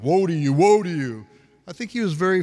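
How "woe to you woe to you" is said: hammed-up ranting, louder on the repeat; half-yelled denunciation, pounding each woe; mock podium yelling. Preacher showing how Jesus did not speak, mock yelling. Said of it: "screamed or yelled or hit the podium".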